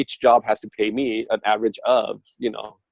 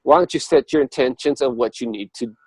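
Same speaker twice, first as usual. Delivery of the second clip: universe advising; 3 semitones higher, 4 dB louder than usual. Retold or imitated. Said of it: "And say".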